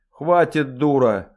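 loud, sharp cut-off; sharp stop. Acted. Mistress silences the singing dwarf, sharply. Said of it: "резко остановила хозяйка".

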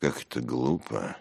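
subdued grumble; a touch of grumpy disapproval; grumbling. Acted. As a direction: mutter your annoyance. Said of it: "проворчал Симонов".

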